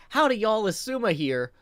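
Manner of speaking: twangy greeting. Shown as a demonstration. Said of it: "So if I'm like".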